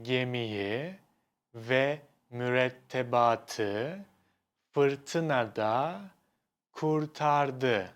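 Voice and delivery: slow, each word set apart by pauses. Shown as a demonstration. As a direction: lay the words out one by one. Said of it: "the same sentence will be".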